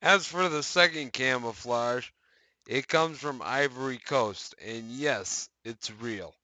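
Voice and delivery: brighter announcer reading voice; news article read. Acted. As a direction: read it like a patch news post.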